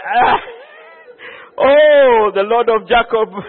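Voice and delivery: startled cry of awe, rising to a call; awed cry. Retold or imitated. Preacher reliving his fright in the boat, an awed cry. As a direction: cry out to the Lord in fright and wonder.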